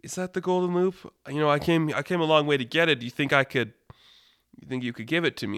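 lightly voiced, really nice guy; mild, polite pleading; Toucan Sam. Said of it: "like, this really nice guy".

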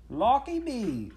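high, loud, drawn-out Cockney wail; acted scandalised street seller; shocked market woman. A narrator's reading. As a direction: exclaim in comic horror, stretched out. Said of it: "said a marrow-selling woman".

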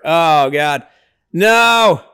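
real gasp of alarm at the screen; alarmed cry. Real, not acted. Scared viewer watching a near miss.

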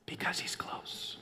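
slow, very soft whisper. Shown as a demonstration. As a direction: whisper it so listeners lean in. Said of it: "when I whisper like that".

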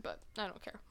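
whispered cheeky aside. Real, not acted. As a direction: whisper it, unbothered.

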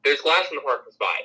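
matter-of-fact, even retelling; pleasantly casual announcement; calm, nice tone. Retold or imitated. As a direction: say it calmly, as if nothing happened. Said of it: "And calmly, in a nice toned voice".

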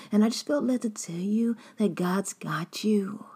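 a hint of a two-faced friend's fake concern; fake pious friend. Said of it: "they'll let you know".

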